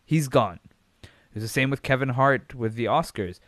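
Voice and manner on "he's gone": mocking outrage. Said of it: "It's like".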